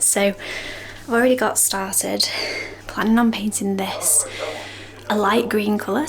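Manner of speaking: breathless after running downstairs; panting between phrases; out of breath. Real, not acted. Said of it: "Sorry, I'm out of breath".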